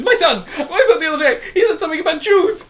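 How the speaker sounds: high, laughing mock voice; sneering parody of a comedian's story; mocking impression. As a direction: ham it up like a smug comedian. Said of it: "he goes".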